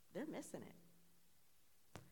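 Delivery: whispered aside, slow and breathless; leaned-in whisper. Retold or imitated. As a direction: lean in and whisper it to your friend. Leaned over to tell a friend.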